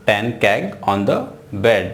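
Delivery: slow, careful reread; slow reading. Shown as a demonstration. Teacher repeats the example slowly. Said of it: "reads example again".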